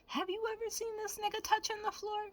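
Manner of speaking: high, amazed rhetorical question; incredulous. Real, not acted. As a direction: ask it in mock disbelief.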